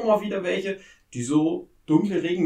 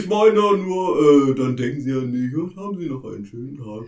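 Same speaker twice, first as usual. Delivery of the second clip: airport announcement; 5 dB louder than usual. Acted. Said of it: "Ich bin nur die Stimme".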